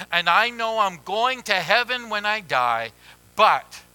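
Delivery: loud, insistent declaration; mock churchgoer insisting hard; emphatic. Churchgoer insists on being forgiven, loud and emphatic. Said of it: "and they will say emphatically".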